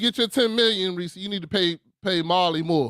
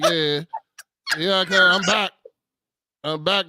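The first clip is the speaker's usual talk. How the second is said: contractor impression; slower than usual. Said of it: "that was my best contractor impression".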